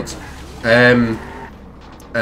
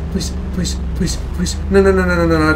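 terrified gibbering; 6 semitones higher than usual. Real, not acted. High panicked pleading.

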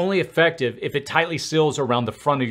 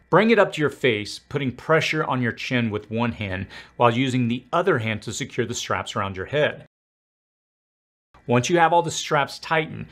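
muffled behind mask visor; speaking inside respirator; through a gas mask. Real, not acted. Seen 0: Full-face mask with filter worn over mouth while he speaks.

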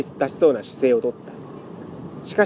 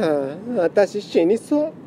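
weary sigh; 5 semitones higher, slower than usual. Acted. Lament cat sighs.

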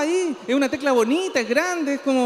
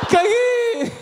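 sudden dismay; 11 semitones higher than usual. Acted. Victim realizes robbery.

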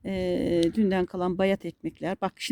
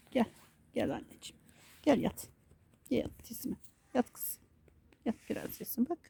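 soft coaxing; 2 semitones higher, 10 dB quieter than usual. Real, not acted. Coaxing dog onto her lap.

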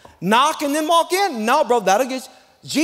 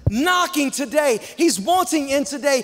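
urgent appeal; 5 semitones higher than usual. Real, not acted. Preacher pressing urgency.

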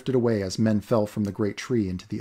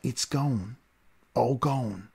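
mourning; much slower than usual. Acted. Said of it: "The men near him cried".

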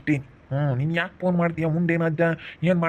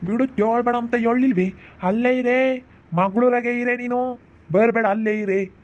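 put-on raised, scolding old man's voice; 5 semitones higher than usual. Grandpa on the phone scolding grandma, raised scolding voice. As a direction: scold her to stay put, voice pitched higher.

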